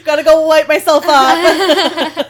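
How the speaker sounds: loud, laughing through tears; teary laugh. Real, not acted. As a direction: laugh it off while welling up. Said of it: "I feel like I'm gonna cry again".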